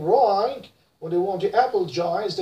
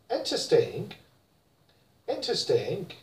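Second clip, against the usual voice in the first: British interesting, softer, clipped; British accent; 5 dB quieter than usual. Shown as a demonstration. Teacher models British interesting: British accent. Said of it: "But in British, guess what".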